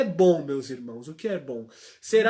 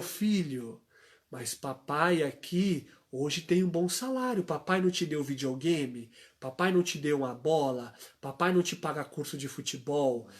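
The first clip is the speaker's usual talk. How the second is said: calm father; 4 semitones lower, 4 dB quieter than usual. Retold or imitated. Father soothing his son.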